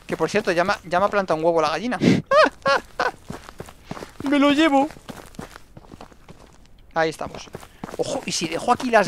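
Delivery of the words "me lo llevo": high laugh into the line. Real, not acted. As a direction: giggle and grab it. Ríe por el huevo. (riendo agudo)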